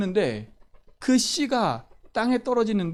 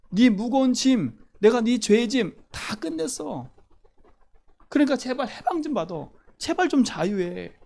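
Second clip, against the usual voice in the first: God pleading; 3 semitones higher than usual. Acted. Preacher voicing God, pleading with his people. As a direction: beg them gently to be set free.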